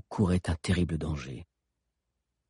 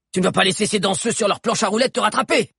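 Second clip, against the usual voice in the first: high, excited urging; goading encouragement; 11 semitones higher, 4 dB louder than usual. A narrator's reading. Mano challenging Grove to outrun the pursuers, goading. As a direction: egg the horse on against the chasers. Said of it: "lança Mano en flattant".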